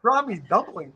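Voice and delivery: incredulous question in an imitated Chinese accent; mock Chinese accent. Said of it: "In a very strong Chinese accent".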